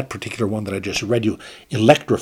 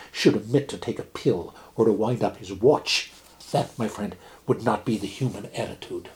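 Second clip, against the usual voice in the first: measured storyteller reading a fable aloud; story reading; 2 semitones higher than usual. A narrator's reading. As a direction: read it like a dry, witty old tale. Reads Stevenson fable aloud.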